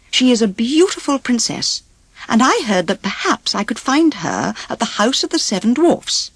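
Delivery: put-on a courteous young prince asking for help; a hint of a noble prince, earnest; polite prince. The prince's speech.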